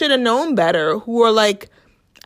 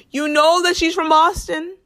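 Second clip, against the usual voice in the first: accusing; 8 semitones higher than usual. Acted. Scolding the husband in absentia.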